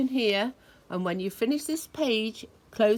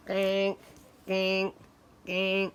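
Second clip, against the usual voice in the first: slower, spaced-out gank; big duck quack; much slower than usual. Retold or imitated. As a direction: honk it like a shy big duck. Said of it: "The big duck says".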